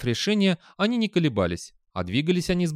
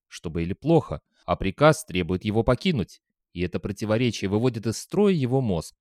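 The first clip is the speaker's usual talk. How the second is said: ordinary delivery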